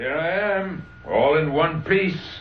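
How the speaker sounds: put-on slightly drunk. A man arrives at the front door and calls inside, slightly tipsy. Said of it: "He sounds a little tipsy".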